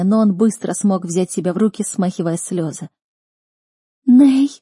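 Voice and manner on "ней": a high, loud cry of a name; exhausted cry. A narrator's reading. Captive sister cries her brother's name, high and loud. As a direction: call out to him, worn out. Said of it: "раздалось измученное".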